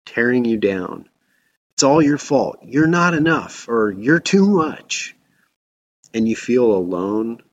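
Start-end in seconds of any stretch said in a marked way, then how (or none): 1.7-5.2 inner critic. Acted. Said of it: "your inner critic starts attacking you".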